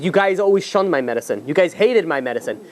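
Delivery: mock outrage, speeding up mid-rant; retold protest, lightly acted; indignant. Healer indignantly confronts the delegation.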